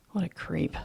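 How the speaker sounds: muttered. Acted. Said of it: "I mutter".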